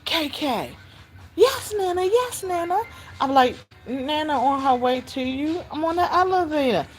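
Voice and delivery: high, sing-song talking to a little one; baby-talk pitch, placating; soothing grandma. Retold or imitated. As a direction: coo reassurance down the phone to a child. Soothing the child by phone.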